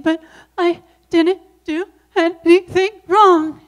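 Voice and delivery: put-on high, loud child protest; pleading child. Little girl protests to her mom, high and loud. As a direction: plead like a wronged six-year-old. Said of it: "And I'm saying".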